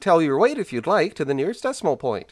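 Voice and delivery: chirpy computer Eddie. Retold or imitated. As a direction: play the eager-to-please onboard computer. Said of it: "the onboard computer to the Heart of Gold that's named Eddie".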